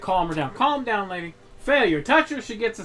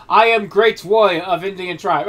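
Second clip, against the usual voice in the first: mock Native American accent; 5 semitones lower, 3 dB louder than usual. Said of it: "difference between the two goddamn accents".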